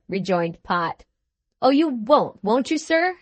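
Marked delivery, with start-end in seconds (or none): 1.6-3.2 mocking, needling question; taunting. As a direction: goad him with a sneer in the voice. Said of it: "said Mister Slurk in a taunting manner".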